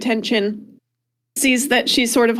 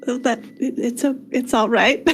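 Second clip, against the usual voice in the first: hesitant soothing murmur; comforting. Acted. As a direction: gently comfort someone in shock. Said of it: "he was comforting her a bit".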